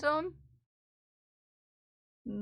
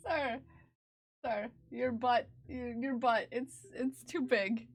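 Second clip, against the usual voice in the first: laughing. Real, not acted. Laughing at cat.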